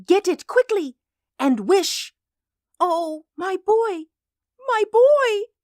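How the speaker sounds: very high, urgent grieving wail; frantic panting plea. A narrator's reading. Wife crying for her dead boy, frantic grief. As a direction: build from urgent order to loud wail. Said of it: "she panted".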